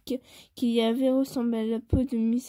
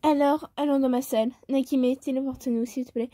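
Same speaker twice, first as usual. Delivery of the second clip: bimbo voice. Acted. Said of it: "Pourquoi je prends une voix de pétasse pour, euh, Daki?".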